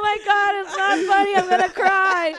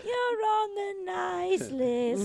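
laughing; 4 semitones higher, much slower than usual. Real, not acted. Laughing blessing to Aretha.

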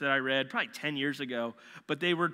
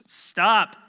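loud and high, one sharp word; commanding shout; 6 semitones higher, 13 dB louder than usual. Acted. Jesus stopping the storm with a loud high command. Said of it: "Imagine, like, dudes".

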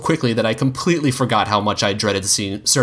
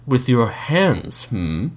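musing; 3 semitones higher, much slower than usual. Acted. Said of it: "he mused".

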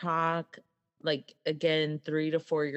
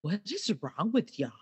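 put-on mildly bewildered imagined-baby question; understated mock bafflement; baffled baby; 3 semitones higher than usual. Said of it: "they're all just looking around like".

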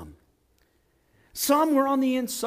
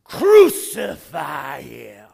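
loud, slow, drawn-out shout; crowd yelling out; 6 semitones lower, 8 dB louder, much slower than usual. Acted. Preacher acting the same people days later, slow loud yell. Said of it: "would yell out".

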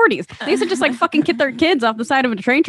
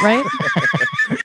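squeaky high question. Pretend.

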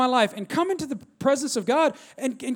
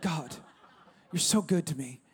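laughing thanks; 7 semitones lower, 7 dB quieter than usual. Retold or imitated.

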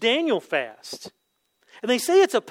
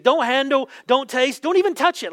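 mock scolding, higher and quicker; sarcastic escalation; 4 semitones higher, 4 dB louder than usual. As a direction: rattle off mocking prohibitions, building urgency. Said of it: "a little bit of sarcasm here".

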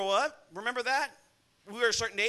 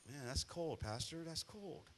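much lower and softer, mock complaint; mock listener protest; 6 semitones lower, 18 dB quieter, slower than usual. Pastor voices the congregation grumbling, low mock.

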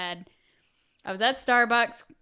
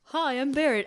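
voicing the pet; 4 semitones higher than usual. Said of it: "voicing the cat".

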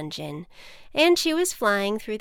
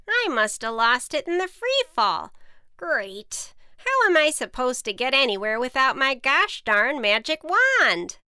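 higher, louder witch rant rising to the end; exasperated witch; 5 semitones higher, 6 dB louder than usual. Acted. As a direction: vent it, climbing higher on wand. Witch rants about lost wand.

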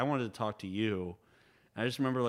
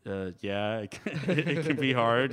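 imitating Ben; slower than usual. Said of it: "this is a terrible impression of you".

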